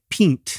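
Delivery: pint said as "peent"; long ee vowel in pint; Old French guess. Shown as a demonstration. Co-host guessing the Old French, pint said like "peent". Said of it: "probably pronounced like pint".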